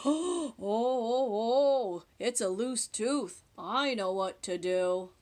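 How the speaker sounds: a knowing dentist; dentist's voice. Acted. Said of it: "and said".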